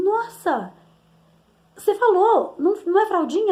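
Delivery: high, loud amazed exclamation; surprised. Retold or imitated. Mother amazed her daughter says absorvente, loud happy surprise. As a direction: sound delighted and astonished at her.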